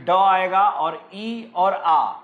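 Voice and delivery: sounding out a word piece by piece; word broken into sounds. Shown as a demonstration. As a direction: slowly separate ड, then ई, then आ. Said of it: "आइडिया को इसको break करेंगे".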